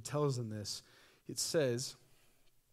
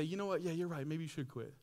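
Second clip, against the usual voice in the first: 1 partner agreeing; 4 semitones higher than usual. Retold or imitated. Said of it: "And then they say".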